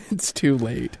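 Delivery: slow with a laugh; laughing echo. Real, not acted.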